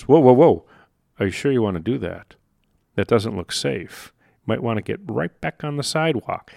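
lightly voiced brain pulling you back, softening; cautious inner voice. Brain's autopilot warning a walker off the curb, hushed caution. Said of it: "your psychocybernetic mechanism goes".

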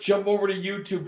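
"jump over to YouTube" rattled off fast; real quick. Real, not acted. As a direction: zip through it quickly. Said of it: "Just real quick".

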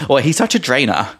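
put-on laughing English accent. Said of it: "Like the English".

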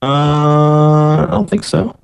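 garbled call audio; distorted, dropping-out line; glitchy robotic call. Real, not acted. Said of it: "you're still breaking up there".

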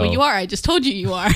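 laughing through the words. Real, not acted. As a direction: tease him and crack up. Teasing partner, laughing.

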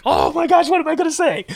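high, panicky inner voice; panicked thought. Retold or imitated. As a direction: squeak it out in a mild panic.

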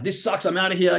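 mock rage quit. Trader shutting the computer down after a loss, mock rage. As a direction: act out a small burst of rage. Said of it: "You rage".

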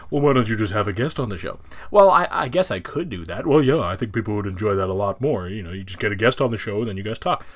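a lightly voiced second self pushing back; imaginary co-host. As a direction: play your own skeptical co-host, only a small change of voice. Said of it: "pretend to be two individuals".

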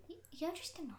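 whispered jab at an annoying brother. Real, not acted. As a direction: breathe it, no voice. Sister answers the brother.

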